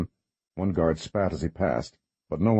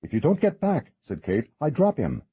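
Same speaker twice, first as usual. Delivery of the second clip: threatening; 8 semitones higher than usual. Acted. Kate threatening at the edge.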